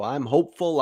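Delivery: normal talking voice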